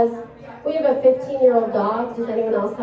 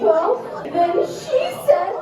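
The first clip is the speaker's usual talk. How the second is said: very high hammed-up wail; mock weeping child. Daughter recounting the girl's retort to mom, imitated weeping wail. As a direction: squeal it through fake sobs like a little girl. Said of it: "my daughter was weeping at this point".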